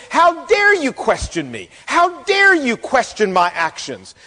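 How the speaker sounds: mock-indignant challenge, deliberate emphasis; Abner, angry and hostile. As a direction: act out an affronted superior, without shouting. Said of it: "not only angry, but downright hostile".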